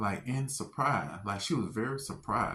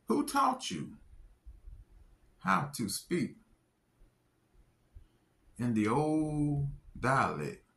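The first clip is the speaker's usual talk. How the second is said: lightly voiced doctor asking, much higher; a hint of the amazed doctor's question; mild imitation of a puzzled woman; quoting the doctor; 3 semitones higher than usual.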